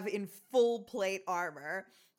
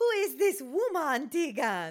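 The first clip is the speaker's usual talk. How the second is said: bad put-on French accent, high pitch; 5 semitones higher than usual. Retelling a suspicious character's line from a story, in a bad french accent. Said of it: "bad, bad French accent".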